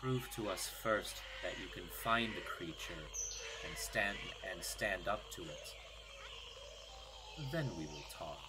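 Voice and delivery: low, hushed, measured creature voice; solemn creature head. Acted. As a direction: speak softly and deep, with grave pauses. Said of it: "before it simply says".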